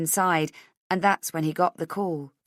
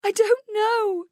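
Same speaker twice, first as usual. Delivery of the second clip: very high, drawn-out sob; tearful, helpless high wail; sobbing; 5 dB louder, slower than usual. Acted. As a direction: sob the words out slowly and loudly. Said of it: "she sobs".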